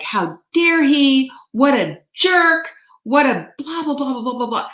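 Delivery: imitating her own angry thoughts; mock indignant rant. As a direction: fume about the rude neighbor. Retold angry inner rant.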